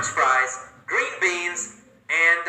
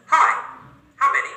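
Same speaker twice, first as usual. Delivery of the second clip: bright hostess greeting; 10 semitones higher, faster than usual. Acted.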